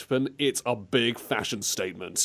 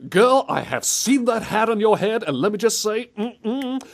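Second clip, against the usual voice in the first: sassy diva; 8 semitones higher than usual. Pretend. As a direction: throw major sass at her hat. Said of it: "some kind of sassy show".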